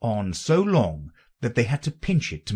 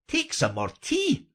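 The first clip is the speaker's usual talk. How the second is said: very high, earnest offer. A narrator's reading. The March Hare offers Alice tea, very earnest. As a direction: urge it sincerely, pitched right up. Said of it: "said to Alice very earnestly".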